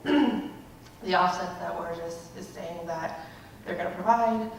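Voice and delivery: out of breath, winded. Real, not acted. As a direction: speak while still catching breath. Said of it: "so I'm really out of breath".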